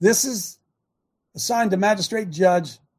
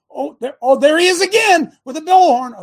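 higher and louder, mock astonishment at each photo; mock surprise; 6 semitones higher, 8 dB louder than usual. Real, not acted. Host mocking the court's photos for the viewers, in mock surprise. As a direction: play it up like a sarcastic gotcha reveal.

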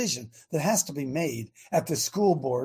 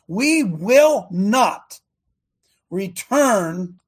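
drawn-out loud vow; slow, loud sermon vow; slow loud declaration; 5 dB louder, much slower than usual. Real, not acted. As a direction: pound out each word slowly. Preacher's climax.

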